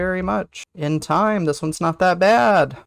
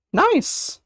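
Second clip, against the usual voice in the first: high squeak; 13 semitones higher than usual. Real, not acted. Reacting to chat.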